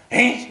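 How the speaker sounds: mock exasperated "ugh"; short acted burst of annoyance; irritated huff. Preacher imitating people who snap easily, irritated huff. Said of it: "막 쉽게 짜증내고 욱하고 막 화내고".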